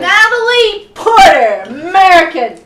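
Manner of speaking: put-on thick Russian accent. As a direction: say it like a Russian spy. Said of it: "she says it in a thick Russian accent".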